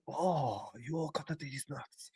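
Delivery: soft, hammed-up Asian accent; mock Asian accent. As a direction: put on a hushed caricature of an Asian accent. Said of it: "I can actually do Asian accents".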